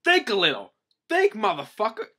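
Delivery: high, very loud scolding; hammed-up outraged official; acted furious yelling. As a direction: holler at the king in exasperation. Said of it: "the guy's yelling at him".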